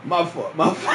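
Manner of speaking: giggly, half-collapsed apology; laughing apology. Real, not acted. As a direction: apologise through leftover laughter.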